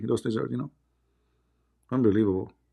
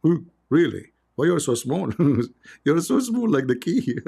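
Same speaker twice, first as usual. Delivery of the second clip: higher, teasing voice; lightly voiced jeering tease; mocking taunt; 4 semitones higher than usual. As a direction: poke fun at the tiny lizard. Mocking the small lizard.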